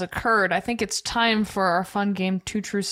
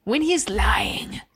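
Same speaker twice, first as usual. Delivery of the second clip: slow teasing whisper; whispered aside; 3 semitones higher, slower than usual. Real, not acted. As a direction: breathe it like a secret. Teasing aside about Chad lying.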